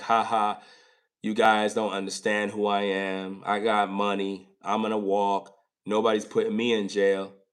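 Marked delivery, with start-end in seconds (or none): none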